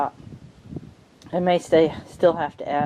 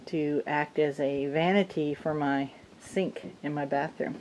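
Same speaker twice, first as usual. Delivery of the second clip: gusty wind hitting the microphone; wind on mic; 5 dB quieter than usual. Real, not acted. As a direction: wind noise over the mic. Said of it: "sorry about the wind noise".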